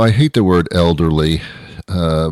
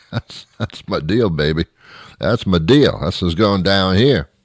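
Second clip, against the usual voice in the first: cool-cat swagger. Pretend. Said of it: "why I just said it like that".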